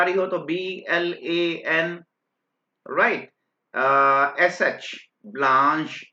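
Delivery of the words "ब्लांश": ब्लांश said slowly as blaansh; teacher sounding out ब्लांश; pronunciation demo. Shown as a demonstration. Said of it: "इस type से pronounce करते हैं".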